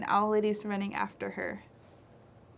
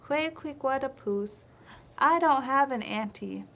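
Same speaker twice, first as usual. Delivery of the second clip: chipmunk's reply; 4 semitones higher, 3 dB louder than usual. Acted. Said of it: "so Chipmunk says".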